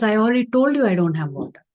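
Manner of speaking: a devotee losing patience with his guest; irritated retort. Acted. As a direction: cut him off, fed up with asking. Devotee snaps back at the Lord.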